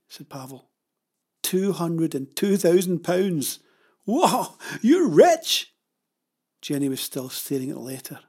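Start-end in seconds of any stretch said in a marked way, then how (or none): 1.4-5.7 slow awe bursting into high excitement; amazed. Acted. Pavel sees Jenny's insurance payout, amazed and thrilled. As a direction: build from measured wonder to a loud whoop. Pavel discovers the huge sum.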